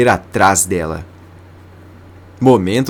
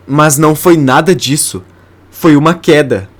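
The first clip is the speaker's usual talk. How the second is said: higher, louder indignant disbelief; shocked protest; 5 semitones higher, 4 dB louder than usual. A narrator's reading. Vênus reading the false cause of death, shocked. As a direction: push back in shock. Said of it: "Em choque".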